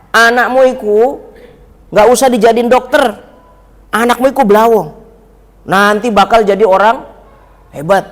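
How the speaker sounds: a hint of a kiai voice; lightly voiced kiai foretelling; kiai's prophecy. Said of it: "Begitu katanya".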